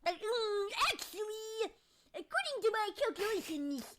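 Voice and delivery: nerdy know-it-all. Pretend.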